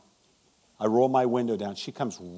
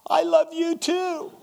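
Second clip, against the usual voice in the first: tender reply; 4 dB louder, slower than usual. Retold or imitated. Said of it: "she looks at me, she goes".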